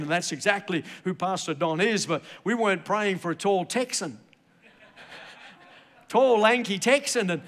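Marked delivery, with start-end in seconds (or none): 6.1-7.3 higher, chuckling delivery; amused laughing. Real, not acted. Preacher teasing about his Texan son-in-law, amused laughing. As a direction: laugh into the words.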